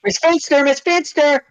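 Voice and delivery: high, whiny tattletale calling out; Randall voice. Retold or imitated. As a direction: whine it up high like a snitch. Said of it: "Randall from Recess".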